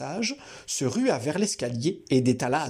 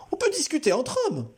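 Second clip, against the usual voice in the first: calmer; 13 semitones higher than usual. A narrator's reading. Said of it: "d'un ton bien plus calme".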